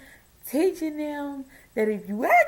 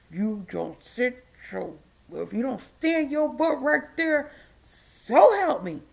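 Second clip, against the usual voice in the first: stern warning; slower than usual. Retold or imitated. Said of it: "not to go into the rage mode".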